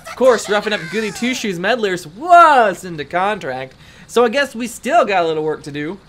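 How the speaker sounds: lightly faked mafia henchman accent; half-hearted Italian mobster voice; attempted Italian mafia accent. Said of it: "like the Italian mafia kind of accent".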